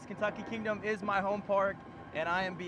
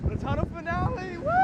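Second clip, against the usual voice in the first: shouted with thrill, higher; on a roller coaster; 8 semitones higher, 3 dB louder than usual. Real, not acted. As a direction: yell it as the tunnel hits. Riding the coaster.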